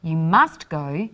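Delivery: slow, with "must" stretched and a rise at the end; enthusiastic recommendation. Shown as a demonstration. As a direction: urge them warmly to go. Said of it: "it would be really great for you to go".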